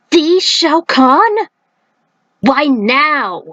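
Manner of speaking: high, slow, drawn-out shock; can't believe what he hears; stunned disbelief. Acted. Johnny stunned by the news.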